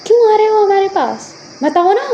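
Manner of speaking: high, insistent demand; angry challenge. Acted. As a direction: demand an answer, upset. Parent challenges returning ex. (चिढ़कर जवाब माँगते हुए)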